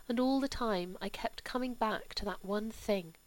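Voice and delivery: soft, hushed, sorrowful mother; a hurt mother confiding, barely above a breath; grieving mother. Acted. Mother confiding her grief to Charles, soft and hushed.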